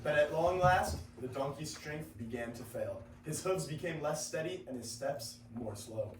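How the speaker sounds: measured storytelling read; story narration. A narrator's reading. Narrator reading the fable to listeners, measured. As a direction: tell the fable evenly to listeners.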